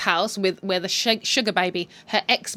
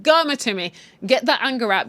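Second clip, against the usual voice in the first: cheering; 4 semitones higher, 4 dB louder than usual. Real, not acted. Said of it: "I'm like".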